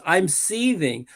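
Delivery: ironic, slowed seething; imitating a sarcastic I'm seething; mock seething. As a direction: sneer the word with irony. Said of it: "the way he says it, he's mocking".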